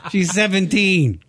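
laughing through the words. Real, not acted. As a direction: crack up while talking. Laughing at photo.

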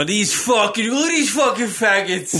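put-on light Indian accent. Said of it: "Is that an Indian accent?".

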